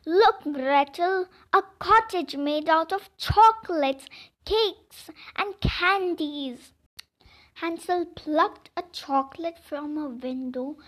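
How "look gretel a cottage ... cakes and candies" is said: put-on louder, higher boy's excited call; excited shout. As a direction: call out in delight at the sweets. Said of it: "Hansel shouted".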